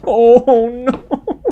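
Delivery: oh no, caught off guard; dismayed gasp. Real, not acted. Fan reacting to Rayla leaving, high dismayed outcry.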